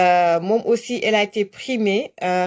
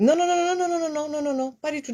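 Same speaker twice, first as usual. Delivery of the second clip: eager denial; 6 semitones higher, 4 dB quieter, faster than usual. Real, not acted. Insisting to caller, not on speaker.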